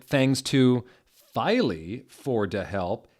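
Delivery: a hint of hammed-up gushing; mock gushing author. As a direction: gush it like a teen writer. Reading the author's thank-you note.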